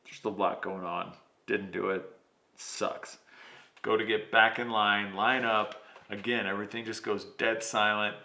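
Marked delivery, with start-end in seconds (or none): 0.0-3.2 sheepish mumble. Retold or imitated. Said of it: "And I'm like".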